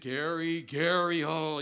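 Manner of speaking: name called out loud and sharp; parent scolding call. Retold or imitated. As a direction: call the child like a cross parent. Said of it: "When my mom would say it".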